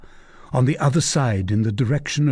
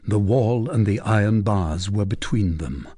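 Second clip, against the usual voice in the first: ordinary delivery, nothing marked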